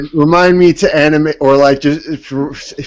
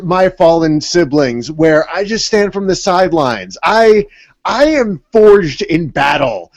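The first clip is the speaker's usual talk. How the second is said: boastful wrestler cutting a promo; lightly voiced wrestling trash talk. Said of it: "now I wanna cut a promo".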